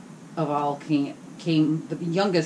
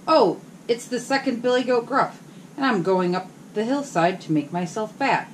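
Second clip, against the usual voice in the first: middle goat voice; 5 semitones higher than usual. Acted. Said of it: "who hadn't such a small voice".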